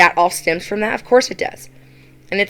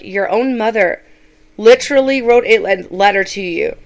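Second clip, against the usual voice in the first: exasperated; 4 dB louder than usual. Retold or imitated. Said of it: "I was so mad at her".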